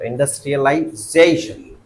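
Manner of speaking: इंडस्ट्रियलाइजेशन with stress on ज़े; model word. Shown as a demonstration. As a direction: say इंडस्ट्रियलाइजेशन, the ज़े syllable strongest. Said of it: "क्या बोलेंगे".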